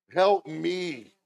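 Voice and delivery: high, loud cry for help; loud plea. Real, not acted. Preacher pleading with the Lord for help, loud impassioned cry. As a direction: cry it out to heaven.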